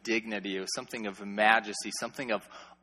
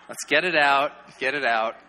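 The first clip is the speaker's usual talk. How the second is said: laughing release; 5 dB louder than usual. Real, not acted. Letting congregation finish laughing.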